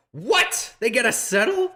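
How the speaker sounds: high-pitched, incredulous outburst; shocked disbelief. Real, not acted. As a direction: blurt it out in disbelief. Disbelief at opponent's move in game.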